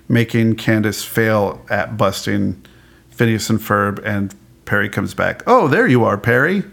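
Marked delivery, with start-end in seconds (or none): 5.5-6.6 sing-song mock discovery of the missing pet; cartoon catchphrase. Recapping Perry coming back home, lilting pretend greeting. Acts show's catchphrase on pet's return.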